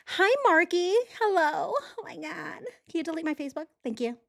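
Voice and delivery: mock tearful plea. Mocking the suspect begging Zuckerberg, high fake whimper.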